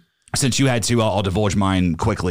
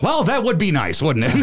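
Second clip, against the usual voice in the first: much higher, hammed-up Chris Farley; Chris Farley impression; 9 semitones higher than usual. To the strange woman, a hammed-up high Chris Farley voice. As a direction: ham it up like Chris Farley, deflecting with a laugh. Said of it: "trying to be like the whole Chris Farley".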